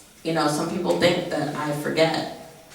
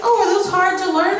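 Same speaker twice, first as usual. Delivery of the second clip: mock creepy guy; 12 semitones higher, 4 dB louder than usual. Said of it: "And he's like".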